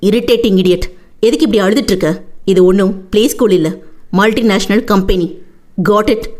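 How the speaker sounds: restrained, irritated male boss; angry scolding. Acted. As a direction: scold a crying employee without raising your voice. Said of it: "என்றான் மேலும் கத்தி".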